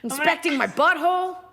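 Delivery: high put-on cat voice; Gracie. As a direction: gripe like a put-upon cat. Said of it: "This is Gracie".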